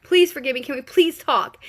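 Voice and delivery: a lightly voiced lovesick man pleading; fast pleading lover. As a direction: beg her to stay, words tumbling out. He begs her after kiss.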